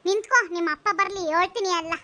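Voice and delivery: outraged neighbour telling him off; acted angry reproach; indignant scolding. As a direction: berate him sharply. Neighbour scolds son for beating mother.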